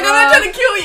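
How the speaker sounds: high, loud mock protest; mock snapping. Woman imitating her partner's reaction to her coughing, mock snapping. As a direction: protest loudly, imitating his outburst. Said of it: "The way he snapped".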